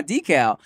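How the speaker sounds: "decal" as DEE-kal, long "ee"; long first vowel in "decal"; DEE-cal. Retold or imitated. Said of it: "they was like".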